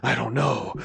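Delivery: mock angsty lament, lightly voiced. Amnesiac hero lamenting his lost past, mock angsty. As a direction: brood over it with a hammed-up sigh. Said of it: "in an angsty way like I made it sound".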